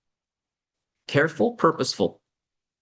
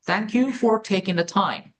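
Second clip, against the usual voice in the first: slow model phrase; 5 semitones higher, much slower than usual. Shown as a demonstration. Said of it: "요 정도까지는 통으로 외우시는".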